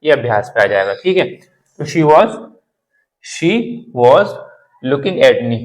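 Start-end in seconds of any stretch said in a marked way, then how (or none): 3.2-5.6 "she was" with sh and a rounded wawz; clear standard pronunciation. Shown as a demonstration. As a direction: model "was" slowly as wawz, rounded vowel. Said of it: "इसको बोलने की कोशिश करना". ("was" का गोल, साफ़ उच्चारण)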